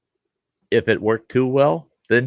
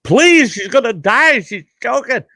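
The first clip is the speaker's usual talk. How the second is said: much higher, pleading falsetto imitation; begging buddy; 13 semitones higher, 4 dB louder than usual. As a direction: whine it out like a desperate friend. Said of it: "he goes".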